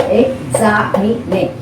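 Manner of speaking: Examine slowly broken up as ex-za-mi-ne; counting syllables. Shown as a demonstration. Teacher locating the stressed syllable, Examine in slow separate beats. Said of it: "See, third or fourth syllable".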